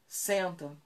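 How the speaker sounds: "Senta" isolado, depois de uma pausa; comando único. Shown as a demonstration. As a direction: um só "Senta", contido, caindo no final. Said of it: "Espera um pouco, o cachorro não sentou?". (diga "Senta" sem pressa e espere)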